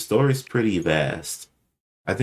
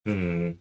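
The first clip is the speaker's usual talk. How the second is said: thinking hmm. Real, not acted. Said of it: "I have to think about that".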